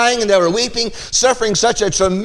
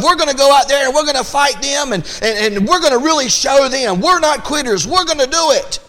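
higher and quicker, rallying the troops; pumped-up pep talk; 6 semitones higher than usual. Retold or imitated. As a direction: fire yourselves up, no quitting. Defeated army pumps itself up.

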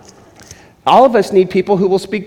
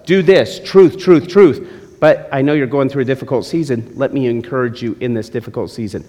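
mentor's advice; 2 semitones lower than usual. Retold or imitated. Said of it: "the general rule was".

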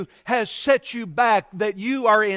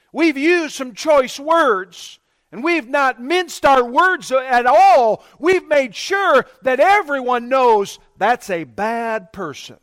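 slow and louder, building each phrase to a shout; rising preaching shout; 2 semitones higher, 4 dB louder, slower than usual. Real, not acted. Preacher to congregation about filthy speech, slow building shout. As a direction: hammer the words home like a preacher.

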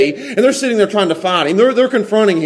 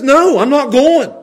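slow, raised defiant no; rebellious refusal; 4 semitones higher, slower than usual. Acted. Rebellious son answers father, defiant refusal. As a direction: dig in and refuse, slowly.

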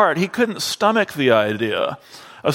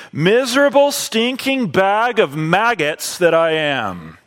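vehement self-reproach; 4 semitones higher than usual. Retold or imitated. Luther's self-abasing quote, first time.

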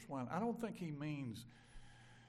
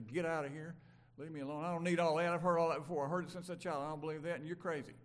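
angry brush-off; 7 dB louder, faster than usual. Retold or imitated. Angry person cussing, retold.

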